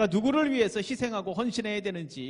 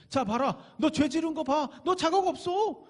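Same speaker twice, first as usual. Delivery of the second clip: mocking devil; 7 semitones higher than usual. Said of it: "또 보여줍니다".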